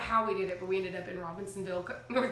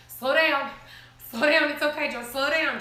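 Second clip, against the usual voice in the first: urgent plea; 3 semitones higher, 6 dB louder than usual. Retold or imitated. Mother pleading during fast drive.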